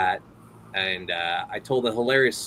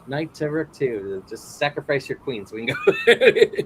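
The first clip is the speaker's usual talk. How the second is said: Arnold; 3 semitones higher, 3 dB louder than usual. Acted. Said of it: "he said there he was playing chess".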